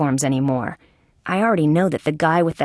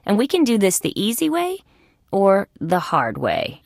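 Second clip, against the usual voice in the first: tough-cop threat. Acted. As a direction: lay out the choice, slowing on the threat. Detective threatening a suspect.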